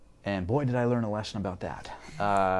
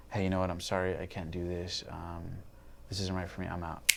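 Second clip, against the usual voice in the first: softer, matter-of-fact imitation of an apology; subdued breakup voice; 6 dB quieter than usual. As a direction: quietly retell her letting him down. Retold sudden breakup call.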